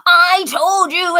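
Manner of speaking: a hint of a sister yelling; mock yell. Sister scolding the narrator at the party, mock yell. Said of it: "she starts yelling at me".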